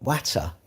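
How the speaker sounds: "Watter" with a short flat A and a sounded T; attempted pronunciation. Shown as a demonstration. Streamer trying a word they can't say, "Watter" with short A and crisp T. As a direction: try out "water" as "watter". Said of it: "No, I can't say that".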